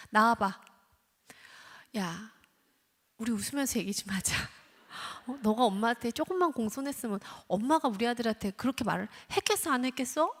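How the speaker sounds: mock-friendly coaxing after the outburst; smooth it over, shifting blame; rationalizing coax. Guilty parent coaxing the child, mock friendly. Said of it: "하면서 합리화를 합니다".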